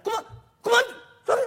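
high, loud eager cry; excited shout. Acted. Merchant shouting the number at the samurai, excited. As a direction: call it out, thrilled at the price.

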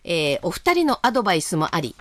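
はきはきと投稿を読み上げる; 区切りよく聞き手に読んで聞かせる; お便りの朗読. Acted. 投稿メールの朗読. (ラジオのお便り朗読)

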